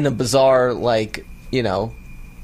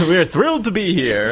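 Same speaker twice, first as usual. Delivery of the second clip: announcer voice; 5 semitones higher than usual. Acted. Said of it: "I can't stop talking like this".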